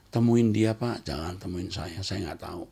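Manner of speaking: calm deflecting reply. Shown as a demonstration. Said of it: "Cukup ngomong gitu".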